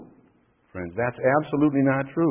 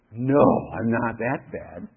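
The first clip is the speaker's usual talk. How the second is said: slow, lower objecting voice; listener's mock objection; 4 semitones lower, slower than usual. Preacher voices a listener answering back, mock objection. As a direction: drag out the protest like a doubter.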